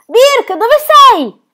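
high, loud panicked shout; desperate yell across the water; anguished call. Acted. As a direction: cry out searching for him. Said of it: "urlò piena di angoscia".

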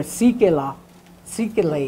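Sikela, Sikele with English e vowels; Sikela, Sikele, the wrong English way; English misreading. Shown as a demonstration. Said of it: "you'd be using, uh, English terms".

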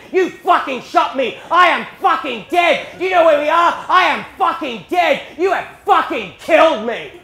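furious high shouting, hammered out slowly; acted rage, loud on every word; tirade of abuse. Dad shot by his son, in a shouted tirade. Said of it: "he just unleashes this tirade of abuse".

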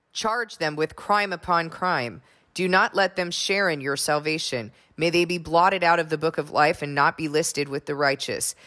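measured, solemn psalm reading; scripture reading. Acted. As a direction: read it like a prayer before the congregation.

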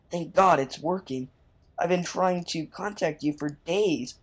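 lightly acted desperate messenger; dramatic message reading. Messenger warning the player about the creatures, mildly dramatic. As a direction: read out an urgent plea for help. Reads game character's message aloud.

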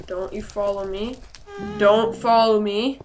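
rising into a loud yell; loud warning shout. Real, not acted. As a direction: shout the mob away, building up. Shouting at a mob.

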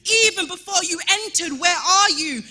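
fiery preaching. Acted. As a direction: preach it out to the whole church. Preaching at full force.

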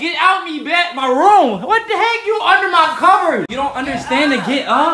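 high, loud laughing yell; loud laughing shout at her. Real, not acted. Yelling sister out of bed.

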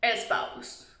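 whispered, soft as a secret; soft unvoiced "Espace". Shown as a demonstration. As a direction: breathe the word "Espace". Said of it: "tu mets un espace".

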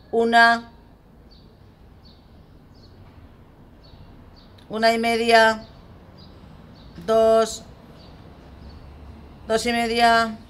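loud, high, level count; warning countdown. Acted. Parent counting to three over homework, loud warning. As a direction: call each number out and hold it. Te cuento hasta tres.

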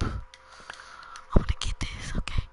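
hushed, barely-voiced murmur; quiet half-whispered gameplay muttering; talking low. Real, not acted. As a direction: keep it soft, almost to yourself. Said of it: "I'm talking so low".

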